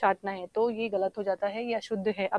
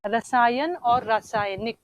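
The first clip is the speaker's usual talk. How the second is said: slow and deliberate; slower than usual. Shown as a demonstration. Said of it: "discuss किया था".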